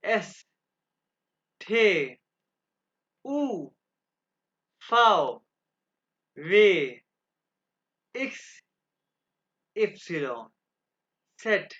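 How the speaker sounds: each German letter name said loud and clear, one by one, with a pause after each; German alphabet recital. Shown as a demonstration. Teacher reciting the German alphabet aloud for students. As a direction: spell out the German alphabet slowly for the class. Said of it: "अब मैं इसको दोबारा pronounce करूंगा".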